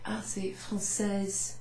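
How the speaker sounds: soft whispered correction, slow; correcting French speaker. Retold or imitated. A French woman quietly correcting a learner. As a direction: gently correct the learner's mistake. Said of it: "they might say".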